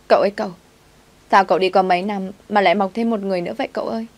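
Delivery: hammed-up whiny girl calling her master; lightly voiced maid wailing.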